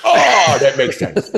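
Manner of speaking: high, loud dopey oh of realization; dim realization. Acted. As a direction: dawn on him slowly, dopey.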